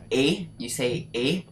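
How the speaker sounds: "A" as the French closed e sound; French accented e. Shown as a demonstration. Teaching viewers the right-hand accent, closed French "A" sound. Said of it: "just the way it's said".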